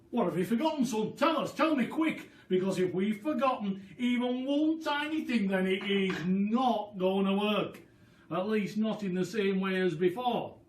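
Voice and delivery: high, quick, excited father's voice; eager father. Acted. Dad begging George to tell him quick, high and eager. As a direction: rush the words, desperate to know.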